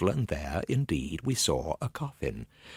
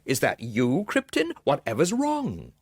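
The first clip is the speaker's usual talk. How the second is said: alarmed question; 7 semitones higher than usual. Acted. Meets frightened friend on stairs.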